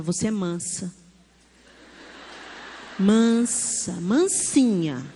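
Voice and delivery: slow, drawn-out, soothing coaxing; calm a cross toddler, stretching each word; low and unhurried, gently insistent; soothing mother. Retold or imitated. Mother calming cross toddler face to face.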